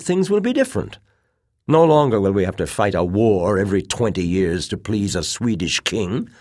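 high, loud, excited argument; hot with conviction. A narrator's reading. Officer urging a future under the Tsar, hot with excitement. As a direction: argue hotly, with fervent conviction. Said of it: "voice was hot with excitement and conviction".

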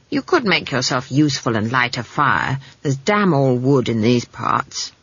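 a hint of a brisk, scolding granny; old witch lightly voiced, drawing out the grumble; lightly voiced brusque old witch. Granny tells the girl to light a fire, lightly brusque.

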